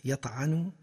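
يطعن with an open a after the ayn; fatha on ayn. Shown as a demonstration. Lecturer giving the verb's present form, fatha on the ayn of يطعن. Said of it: "ومضارعه بالفتح".

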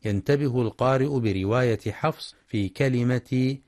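ordinary talk

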